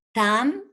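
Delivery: "tam" on its own, set off by pauses; isolated syllable. Shown as a demonstration. Teacher counting syllables for class, "tam" said separately. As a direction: sound out "tam" as one detached syllable. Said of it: "una sílaba".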